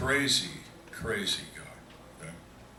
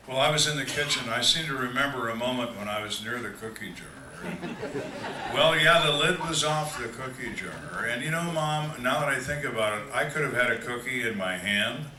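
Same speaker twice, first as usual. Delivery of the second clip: mock innocent child stalling Mom, pitched up; evasive excuse; 3 dB louder than usual. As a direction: hedge your way through a feeble fib. Mimics child lying to mother.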